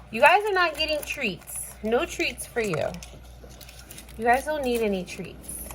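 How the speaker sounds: high-pitched pet-scolding tone, falling away. Real, not acted. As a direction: refuse the begging pets. Scolding pets begging for treats.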